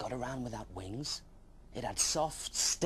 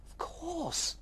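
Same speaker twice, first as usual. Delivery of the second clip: eager high reply. Acted.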